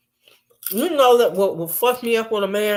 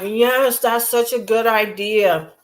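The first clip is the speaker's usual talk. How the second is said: mock eager yes-man; slower than usual. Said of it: "He's always like".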